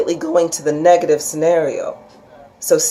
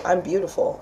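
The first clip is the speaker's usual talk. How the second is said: a soft, much quieter self-affirmation; a private daily affirmation under the breath; 7 dB quieter than usual. Retold or imitated. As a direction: murmur it to yourself. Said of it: "if you tell yourself every single day".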